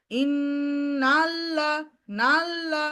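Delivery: ইন্নাল্লা rising up and down in a melody; wavy tune. Shown as a demonstration. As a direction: sing ইন্নাল্লা with a wave, lengthening on top. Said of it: "এরকম করা যাবে না". (সুর দিয়ে ঢেউয়ের মতো পড়া)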